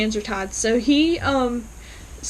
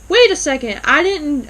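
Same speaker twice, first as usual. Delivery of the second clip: raised, louder startled protest, retold; disbelief; 4 semitones higher, 6 dB louder than usual. Doctor objecting to the DNA results, in disbelief. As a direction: protest as if caught off guard. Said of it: "He's in disbelief".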